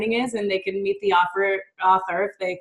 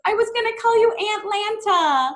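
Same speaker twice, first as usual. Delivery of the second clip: put-on high, gleeful little-kid voice; imitating young niece; 13 semitones higher than usual. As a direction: mimic a tickled child in a high pitch. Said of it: "She goes".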